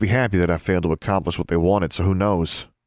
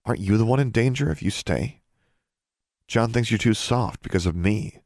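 lightly voiced sister, higher pitch; a slightly higher girl's voice, questioning; concerned younger sister; 5 semitones higher than usual. Sister questions her brother's safety, concerned.

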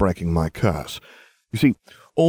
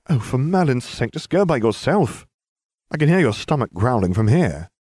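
grumbling; 6 semitones higher than usual. Acted. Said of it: "I grumbled".

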